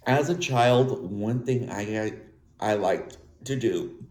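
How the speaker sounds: speaking through hiccups. Real, not acted. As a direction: catch on each hiccup. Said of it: "I'm getting the hiccups right now".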